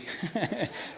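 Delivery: short real chuckle; brief laugh. Real, not acted. Pastor laughing at himself after losing his place, light chuckle. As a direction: laugh at yourself mid-sentence.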